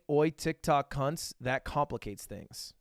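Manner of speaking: mock Australian accent. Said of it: "What'd he say?".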